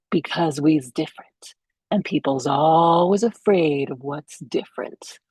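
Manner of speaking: slow, light Jamaican lilt; Jamaican accent. Retold or imitated. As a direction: quote it slowly in a mild Jamaican accent. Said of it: "Jamaican ladies says".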